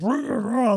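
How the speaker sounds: half-hearted retold yelling; mock scream. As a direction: imitate someone roaring up the stairs at half volume. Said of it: "you hear Marty screaming".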